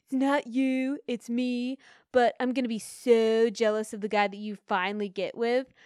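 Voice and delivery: lightly voiced smooth F-boy; a hint of a smooth talker letting her down; mock F-boy line. Podcaster mocks F-boys' breakup line, lightly voiced smooth F-boy. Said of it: "F-boys say where they're like".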